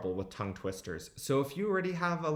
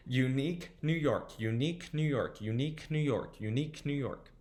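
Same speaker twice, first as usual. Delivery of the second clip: quicker back-to-back repeats; a little faster. Shown as a demonstration. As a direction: run it several times without stopping. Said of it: "Let's try going a little faster".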